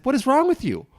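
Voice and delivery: hammed-up offended complaint; mock outrage. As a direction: pretend to scold someone who botched an easy name. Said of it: "it's like".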